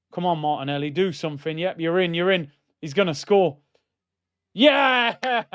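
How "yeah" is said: high, loud celebration yell; real joy as the goal goes in; excited yell. Real, not acted. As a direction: cheer the goal at full volume.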